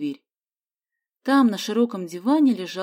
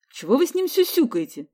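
angry; 6 semitones higher than usual. A narrator's reading. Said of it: "рассердился Сидякин".

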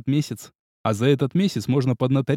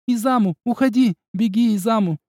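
put-on high, louder girl's shout; Katsumi's cry; 7 semitones higher, 4 dB louder than usual. A narrator's reading. Katsumi shouts from the booth for Izamu to flee. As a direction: yell to him to run. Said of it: "кричала Кацуми".

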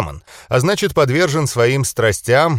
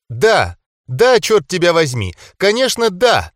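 emphatic, higher-pitched burst of acceptance; excited cry; 7 semitones higher, 3 dB louder than usual. A narrator's reading. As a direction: cry out an eager yes, without full shouting. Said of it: "закричала Алина". (радостный, несдержанный выкрик)

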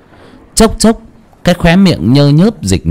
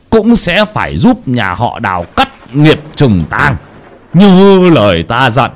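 put-on stern old shaman. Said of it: "Miệng của cụ nói to".

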